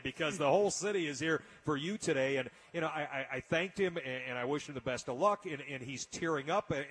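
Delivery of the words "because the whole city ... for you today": retelling his own line through a chuckle; laughing while quoting himself. Retold or imitated. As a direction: let a laugh break up the quote. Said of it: "and I said".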